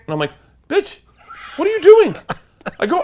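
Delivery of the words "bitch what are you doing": mock shout. Yelling at wife who honked.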